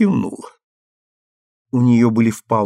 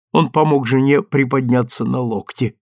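plain reading voice

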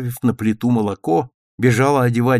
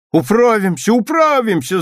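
higher, louder eager cry; a girl shouting she'll manage; Tanya promising grandmother eagerly; 11 semitones higher, 5 dB louder than usual. A narrator's reading. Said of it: "закричала Таня".

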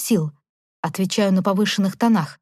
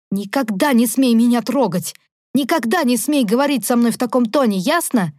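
rumbling fury; 3 semitones higher than usual. Acted. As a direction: lay down the law, furious. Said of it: "пророкотала".

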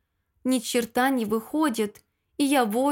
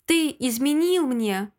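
mild mock scream. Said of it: "воплю не своим голосом".

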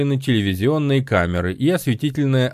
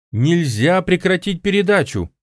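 higher-pitched, pressing plea; insistent; 7 semitones higher than usual. A narrator's reading. Woman urges the host not to stop the show, insistent. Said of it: "настаивала Пегги".

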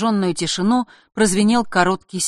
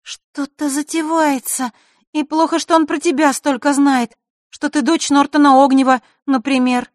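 put-on girl's voice; 10 semitones higher, 6 dB louder than usual. Zakharra voiced, louder.

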